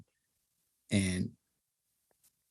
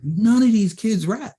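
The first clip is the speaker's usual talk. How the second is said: high, loud, drawn-out objection; incredulous protest; 11 semitones higher, 5 dB louder, slower than usual. Retold or imitated. Producer insisting to the rapper about the kids, incredulous. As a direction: stretch the retold complaint in disbelief. Repeating his protest to the rapper.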